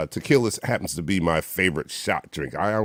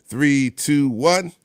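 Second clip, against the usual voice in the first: rising countdown, each number higher; 5 semitones higher, 3 dB louder, much slower than usual. Real, not acted. Host counting down friends to a shot, rising excitement.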